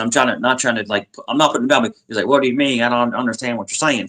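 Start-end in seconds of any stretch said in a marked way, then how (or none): 2.3-4.1 light imitation of a country accent; puzzled reply in a mild country accent; gently borrow a country accent. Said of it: "he has a really heavy country accent".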